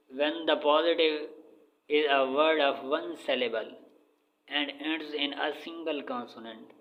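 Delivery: very slow, word by word, like dictating to a class; measured classroom dictation of an English rule. Shown as a demonstration. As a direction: read the rule out slowly for students to copy. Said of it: "reading English rule aloud".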